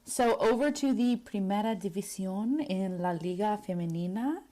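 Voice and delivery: Spanish accent with rolled r's. Shown as a demonstration. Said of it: "my Spanish accent 'cause I can roll my R's".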